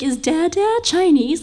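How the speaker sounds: put-on high childlike question; imitating her little daughter. Daughter asking her mom about dad, high childlike voice. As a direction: ask it up high like a curious toddler. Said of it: "And she's like".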